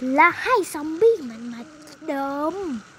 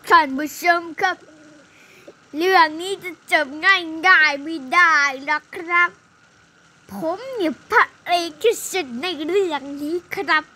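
louder, proud announcer-like hero; boastful hero; 4 dB louder than usual. Pretend. Hero boasting to viewers, proud and loud. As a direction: show off to the audience.

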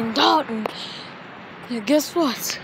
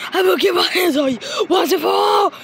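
angry shout; 4 semitones higher, faster than usual. Acted. Shouted threat.

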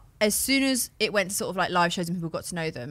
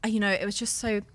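softer, higher imitation of affected disbelief; mock self-important impression; 4 semitones higher, 5 dB quieter than usual. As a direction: put on an overdone oh-my-God act, quietly. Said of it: "but he puts it across as".

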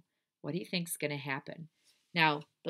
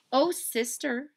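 high, slow little-sister plea; Baby Lincoln; 8 semitones higher, 5 dB louder, slower than usual. Acted. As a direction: draw it out doubtfully.

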